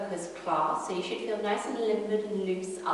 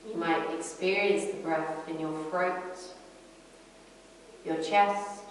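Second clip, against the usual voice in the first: calm yoga teacher, unhurried with long pauses; guided breathing meditation. Acted. Yoga teacher guiding a class inward to the breath, calm meditation voice. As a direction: lead them gently through the breath, pausing between phrases.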